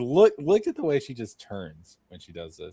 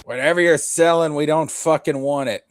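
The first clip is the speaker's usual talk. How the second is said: higher, louder shout: get lost, salesman; mock shout at the door; 4 semitones higher, 4 dB louder than usual. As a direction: yell it at someone knocking on your door.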